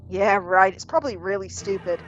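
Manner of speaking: grumpy husband, loud dismissive start; mildly cranky brush-off. Acted. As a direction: grumble it as a sour husband. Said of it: "cranky as usual".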